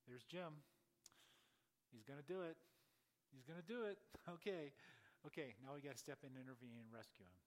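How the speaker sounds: loud play-by-play mock alarm, easing into resolve; God watching in alarm. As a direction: act out an onlooker's rising disbelief. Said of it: "he's sitting up there and he goes".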